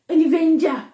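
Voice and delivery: mock grand An Avenger; mock dramatic exclaim. Shown as a demonstration. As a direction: announce An Avenger with mock awe.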